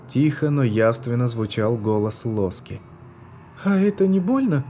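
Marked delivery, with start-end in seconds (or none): 3.6-4.6 put-on high childlike voice, timid; a little girl asking the healer; детский голосок, робко; small girl asking. A narrator's reading. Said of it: "спрашивала она".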